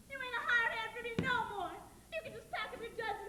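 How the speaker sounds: loud, cutting dismissal; furious lady firing the hand; angry dismissal. Acted. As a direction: throw him out with force. Laurie fires Judd.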